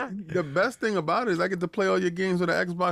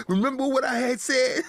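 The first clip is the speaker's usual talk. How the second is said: mocking viewer; 8 semitones higher than usual. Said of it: "he bring the story back".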